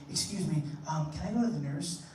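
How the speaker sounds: meek innocent ask. Retold or imitated. Kid asks teacher.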